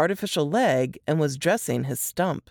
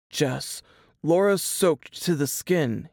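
forced calm. A narrator's reading. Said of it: "in a forced calm voice".

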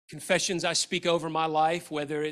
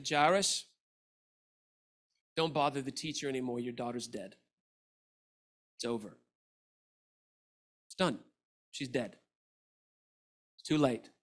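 softly, heavily, breaking the news; quiet, grave messenger voice; hushed bad news; 5 semitones lower, 7 dB quieter than usual. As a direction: lower and softer, like telling a father his child died. Messengers bring news of death.

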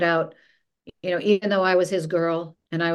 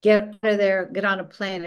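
retold screaming; 3 dB louder than usual. Boss fires her over the phone, mild retold screaming. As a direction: imitate a boss yelling, partly held back.

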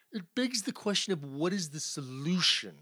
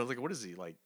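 normal talking voice

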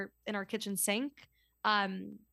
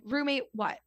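blunt question, not mean; a touch of curt impatience; 3 semitones higher than usual. Retold or imitated. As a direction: ask it bluntly, without meanness. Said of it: "in a blunt".

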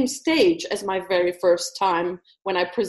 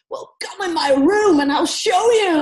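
cheeky challenge; 7 semitones higher, 5 dB louder than usual. Retold or imitated. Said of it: "he stood up and he said".

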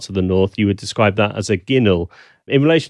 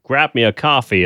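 stereotyped New York accent, lightly put on; mock New York accent; 3 semitones higher than usual. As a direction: imitate a New Yorker's accent. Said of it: "of a New York accent".

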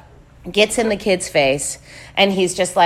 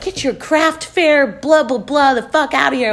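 retold angry dismissal; 6 semitones higher than usual. Owner yelling back, retold.

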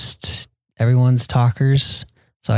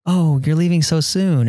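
much higher, sing-song hospitable protest; polite host protest; 7 semitones higher than usual. Retold or imitated. Brazilian host seeing guests out, high sing-song. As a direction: play the gracious host who won't let you go. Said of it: "they always had this funny saying where it's like".

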